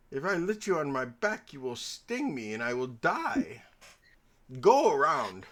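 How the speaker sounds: a touch of mock indignation; indignant frog. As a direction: refuse firmly as the storytelling frog. Acted frog refusing the scorpion.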